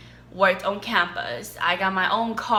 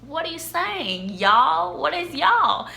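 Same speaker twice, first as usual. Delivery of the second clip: confused; 9 semitones higher, slower than usual. Retold or imitated.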